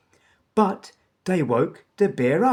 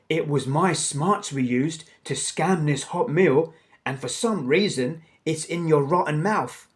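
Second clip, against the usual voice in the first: bickering; 4 dB louder than usual. Acted. Two crooks bickering over a meal.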